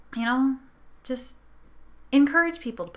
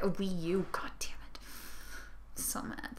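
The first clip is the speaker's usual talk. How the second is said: whispered, much softer grumbling to herself; whispered grumble; 3 semitones lower, 11 dB quieter than usual. Real, not acted. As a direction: whisper the gripe under your breath. Sulking about not owning Wii U.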